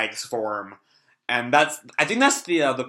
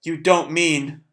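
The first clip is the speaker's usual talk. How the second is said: gasping shock; 3 semitones higher, slower than usual. Acted. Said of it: "he gasps back".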